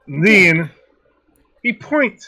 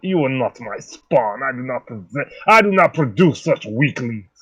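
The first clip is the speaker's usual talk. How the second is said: a hint of a cold patriarch, a bit lower; lightly voiced stern father; 4 semitones lower than usual. Father scorning the player character, cold. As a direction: dismiss him as a weakling.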